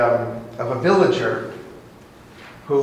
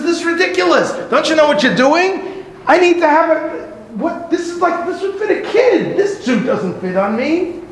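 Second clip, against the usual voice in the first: furious villager; 12 semitones higher than usual. Acted. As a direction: rage at the tailor over a ruined suit. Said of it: "and he's furious".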